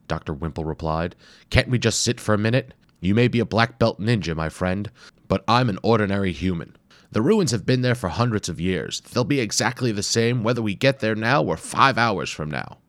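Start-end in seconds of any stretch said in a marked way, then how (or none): 1.5-12.8 put-on exasperated older scholar, higher and louder; grumbling tired professor. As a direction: complain like a worn-out academic. Grumbling archaeologist voice.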